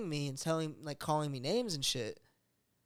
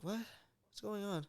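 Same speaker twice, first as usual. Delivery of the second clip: whispered, slow and groggy; like waking from a nap, barely aware; groggy just woke; 5 semitones higher, 7 dB quieter, slower than usual. Retold or imitated. Girlfriend coming out of a night terror, whispered and groggy. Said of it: "like she woke up from a nap".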